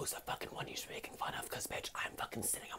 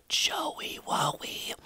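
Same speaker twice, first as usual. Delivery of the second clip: mocking bully; 7 dB louder, much slower than usual. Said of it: "He would say".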